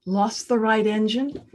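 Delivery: "Lost the right engine?" in disbelief, rising on "engine"; incredulous echo. Retold or imitated. Passenger repeating the pilot's news back in shock. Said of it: "And I'm thinking".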